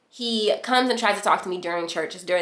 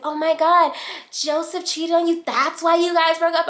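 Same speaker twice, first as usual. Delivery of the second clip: scandalized questions, pitched way up; mock shocked friends; 9 semitones higher than usual. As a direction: imitate friends gasping at gossip. Friends shocked at cheating news.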